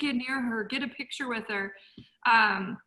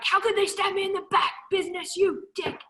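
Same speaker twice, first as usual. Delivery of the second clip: higher, hammed-up wounded outrage; a hint of mock betrayal; mock bitter rant; 9 semitones higher than usual. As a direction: mimic your old hurt self. Imitating her past bitterness.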